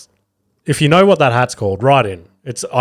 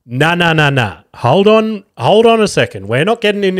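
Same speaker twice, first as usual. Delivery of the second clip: higher, insistent interruption; halting someone mid-idea, voice raised in pitch; retold firm objection; 5 semitones higher than usual. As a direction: cut in and put your foot down. Retold objection to wife's suggestion.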